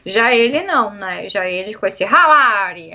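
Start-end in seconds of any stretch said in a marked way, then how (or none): 2.0-2.9 imitating a thick Italian accent in English. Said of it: "sotaque italiano muito forte". (imitando sotaque italiano forte no inglês)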